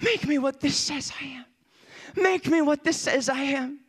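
restrained re-enacted plea; crying out in prayer. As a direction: plead with God, holding the volume back. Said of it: "I'm crying out to the Lord".

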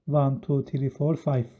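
counting off one to five, wrong way; teacher demos the wrong way to reach five. Shown as a demonstration. Teacher shows students the wrong answer, counting slowly up to five. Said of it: "Cevabı five demememiz lazım".

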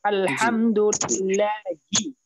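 আলহামদুলিল্লাহি drawn out very slowly with a clear ha sound; slow teaching recitation of আলহামদুলিল্লাহি; tajweed demo. Shown as a demonstration. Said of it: "এখানে মধ্যে হা বলা হয়েছে".

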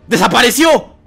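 high, loud disbelief; high-pitched stunned yelling; shocked exclamation. Real, not acted. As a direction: cry out in astonishment. Shocked that character vanished.

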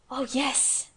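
a touch of eager delight; mildly excited boyish answer; eager cry. Acted. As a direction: brighten up with a small happy cry. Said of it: "cried Colin".

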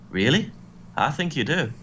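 a half-hearted attempt at a Scottish accent; bad Scottish accent. Drew doubting Dolph, in a badly faked Scottish accent. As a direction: put on a poor Scottish lilt. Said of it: "that was a shit Scottish accent".

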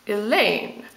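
"Elaine" with weight on the second syllable; "Elaine", light first syllable and stressed second. Shown as a demonstration. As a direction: say "Elaine" leaning on the final syllable. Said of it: "Elaine would have unstressed, stressed".

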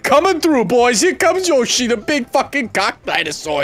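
high, loud, slow showman bellow; hammed-up hype yell. Player hypes his Yoshi swing to the boys with a hammed-up bellow. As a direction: announce yourself like a wrestler entrance. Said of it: "hyping his Yoshi swing".

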